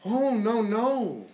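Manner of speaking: high, alarmed refusal; the little fly crying out no to the spider; frightened little fly. Acted. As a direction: pull back in alarm, voice jumping up.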